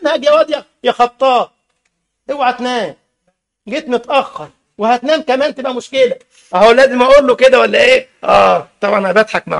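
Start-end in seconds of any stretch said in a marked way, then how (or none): 2.3-6.2 teasing quiet aside. Real, not acted. Aside teasing Khattab about sleeping.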